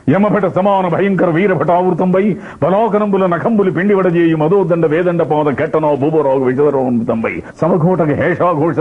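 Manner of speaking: high, sustained mythological-drama declamation; S V Ranga Rao. Acted. Actor as Chanakya ranting about the battlefield, grand declamation. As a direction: roll out the long compounds grandly and slowly. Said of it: "Rangarao గారు చాణక్యుడు వేస్తే".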